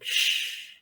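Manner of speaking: a cold whispered shush; hushing whisper. Acted. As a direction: hush the dying kobold with a whisper. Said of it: "Just like".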